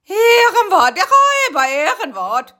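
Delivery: very high, loud, crying promise; whimpering oath. Acted. Rocky swearing his word of honour, whimpering. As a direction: swear it tearfully. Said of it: "wimmerte Rocky".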